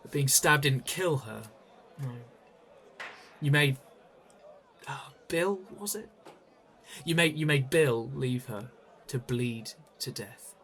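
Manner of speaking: confronting. Acted. Confronting her over the murder.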